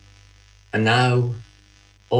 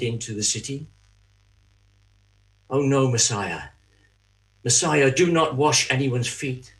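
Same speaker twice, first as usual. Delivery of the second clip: mock controlling self. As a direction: play the fussy treasurer forbidding everyone. Judas acting out his controlling self.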